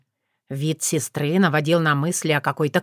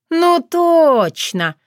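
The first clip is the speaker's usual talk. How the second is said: eureka exclamation; 10 semitones higher, 5 dB louder, much slower than usual. Acted. Sudden realisation.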